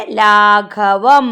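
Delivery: ലാഘവം very slowly, syllable by syllable; slow read-along ലാഘവം; read-along demonstration. Shown as a demonstration. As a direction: lead learners through each held syllable of ലാഘവം. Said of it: "നിന്റെ കൂടെ വായിച്ചേ".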